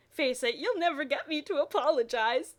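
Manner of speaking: smirking. Acted. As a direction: say it with a smug smirk. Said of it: "James smirked".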